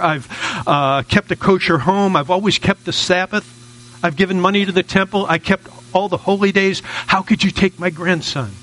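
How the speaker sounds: half-acted complaint to God; pleading grandmother. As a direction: list it to heaven as a mildly wronged grandmother. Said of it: "and she screams".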